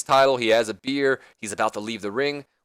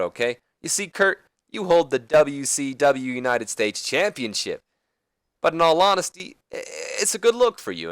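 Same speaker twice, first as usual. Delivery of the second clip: Ric Flair impression; 3 semitones higher than usual. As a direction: sweet-talk him like a veteran wrestler pitching a deal. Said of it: "And then Angle responds".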